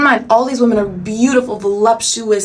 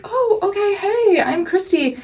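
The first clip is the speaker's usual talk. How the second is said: much higher, a squeaky nervous hello; nervous high greeting; 11 semitones higher, slower than usual. Retold or imitated. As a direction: meet the new roommate in a tight, high voice. Nervous greeting to new roommate.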